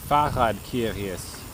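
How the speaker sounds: put-on drawn-out, jokey German accent. Streamer joking about German for curious, in a German accent. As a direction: say it slowly in a mock German accent. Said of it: "say the word curious with a German accent".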